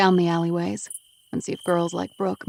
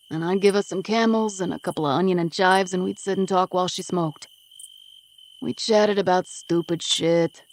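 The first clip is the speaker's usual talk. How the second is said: tough East Coast smoker brushing her off; gruff East Coast guy Vinny, defensive. Acted. Vinny remembers Amelia.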